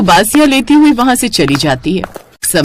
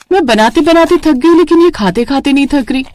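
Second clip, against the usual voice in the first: higher, fed-up complaint; exasperated; 6 semitones higher than usual. Acted. Tired bride grumbling about the guests, higher and exasperated. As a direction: vent it, worn out.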